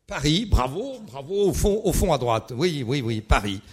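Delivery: loud, high quizmaster bravo; congratulating a winner. Real, not acted. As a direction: call out praise to the back of the room. Applauds answer from back of room.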